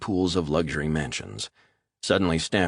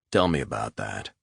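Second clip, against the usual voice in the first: menacing interrogator; 7 semitones lower than usual. Acted. Resnick questioning the man at gunpoint, low and menacing. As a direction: press him low and cold.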